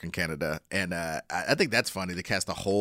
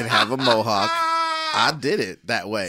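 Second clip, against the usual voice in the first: laughing mock excuse; 3 semitones higher, 6 dB louder, slower than usual. Mocking the animation studio's excuse.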